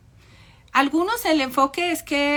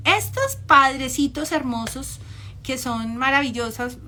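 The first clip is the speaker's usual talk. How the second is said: ironic; 3 dB louder than usual. Real, not acted. Speaker mocking narcissistic parents to the audience, ironic praise. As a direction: praise them with heavy irony. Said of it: "hablo en ironía".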